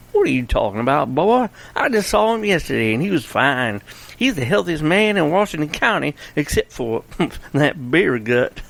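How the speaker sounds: put-on the sheriff brushing off the boy with a chuckle; lightly voiced sheriff. Sheriff to Bobby, teasing disbelief, lightly voiced.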